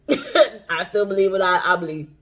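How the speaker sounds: giggling through the words; laughing. Pretend. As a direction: say it while laughing. Laughing while voicing a reply.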